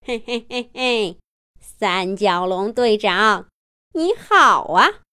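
slow sneering villain; sly villain greeting. Acted. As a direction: greet the hero with a sly snicker. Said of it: "嘿嘿一笑". (阴险慢悠悠地打招呼)

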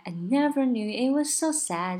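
slow line leaning on "so" in "so sad"; stress on SO. Shown as a demonstration. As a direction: put the weight on so before sad. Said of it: "它的重音就在".

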